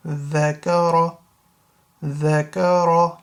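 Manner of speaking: ذكر with dhal and a full-mouth ra, slowly; dhal not za. Shown as a demonstration. Teacher correcting zakar to ذكر, slow and clear. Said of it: "That's a ذال. Not za".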